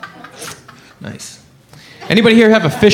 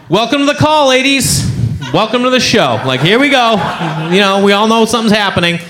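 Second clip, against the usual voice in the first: mock host welcome; 3 semitones higher than usual. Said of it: "I was just like".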